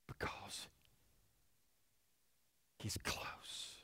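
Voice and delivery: soft unvoiced whisper. Shown as a demonstration. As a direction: breathe it right in their ear. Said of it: "He whispers".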